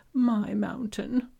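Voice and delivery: drawn-out breathy confession of greed; slow whisper. Acted. Gesho confesses his price to Haru, slow whisper. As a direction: savor the prize as you whisper it.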